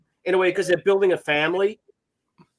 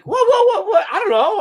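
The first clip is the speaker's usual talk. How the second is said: mock innocent; 14 semitones higher, 6 dB louder than usual. Retold self to angry wife.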